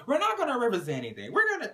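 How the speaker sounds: fast, high, heated interrupting; heated cut-in. Retold or imitated. Brittany jumps in.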